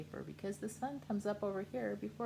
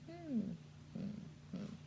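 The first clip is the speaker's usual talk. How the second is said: thinking hmm; 3 semitones higher, 9 dB quieter, slower than usual. Acted. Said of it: "He's thinking".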